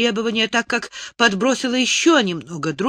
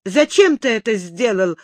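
angry outburst; 2 semitones higher, 3 dB louder than usual. Acted. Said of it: "вскипела она".

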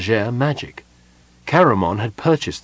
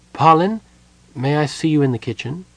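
icy, higher, clipped summons; cold; 6 semitones higher than usual. A narrator's reading. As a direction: coldly call him aside. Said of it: "cold as the oatmeal".

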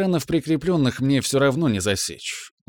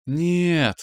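a higher, ringing "no" half-sung; ringing sing-song; 6 semitones higher than usual. A narrator's reading. Mom twirling her son, ringing sing-song. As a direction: sing out the refusal playfully. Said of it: "звонко пропела родительница".

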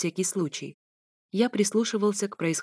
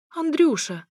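high-pitched cry of his name; startled exclamation; 9 semitones higher, 4 dB louder, slower than usual. A narrator's reading. Alisa comes out of the bathroom to him, high exclamation. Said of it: "воскликнула вышедшая из ванной Алиса".

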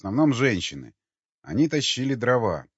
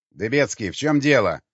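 громко, требуя объяснений; строго окликни подчинённого; строгий голос; 6 dB louder than usual. Acted. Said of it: "послышался строгий голос". (начальственная строгость)

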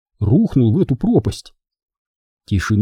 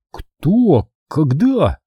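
bewildered; 5 semitones higher, much slower than usual. Acted. Charlie dazed, confused.

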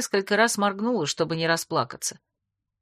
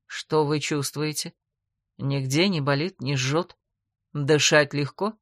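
caring; 4 semitones lower, slower than usual. A narrator's reading. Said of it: "заботливо спросил папа".

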